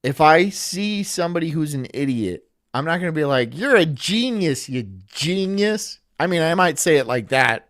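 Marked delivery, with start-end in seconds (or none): 3.6-6.0 slow, drawn-out mock praise; slow sarcastic "genius". Shown as a demonstration. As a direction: flatter them with open sarcasm. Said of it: "that's just super sarcastic".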